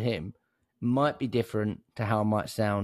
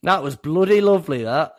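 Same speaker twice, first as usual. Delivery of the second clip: higher, louder mock northern English; put-on northern accent; 5 semitones higher, 8 dB louder than usual. Co-host praising the intro, playfully gone northern. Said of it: "I don't know why I've gone northern".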